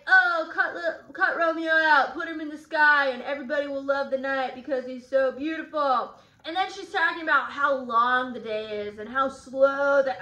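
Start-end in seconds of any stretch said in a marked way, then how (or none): 0.1-6.1 breathless swooning paraphrase; lightly hammed-up lovestruck gushing; gushing Juliet. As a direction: gush about him like a lovestruck teen.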